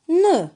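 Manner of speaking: "ne" alone, high and loud; isolated syllable. Shown as a demonstration. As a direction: sound out "ne" as its own syllable. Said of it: "Et la troisième syllabe".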